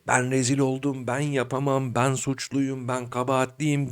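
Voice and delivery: softly murmured self-blame; negative inner voice. Acted. Inner monologue blaming oneself, hushed and negative. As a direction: recite self-accusations quietly, to yourself. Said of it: "İç ses".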